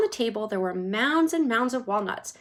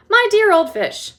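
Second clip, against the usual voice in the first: much higher and louder, teasing; Wonka mocking; 10 semitones higher, 11 dB louder than usual. A narrator's reading. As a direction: Wonka teasing Mrs Salt, high mocking voice. Wonka mocking Mrs Salt.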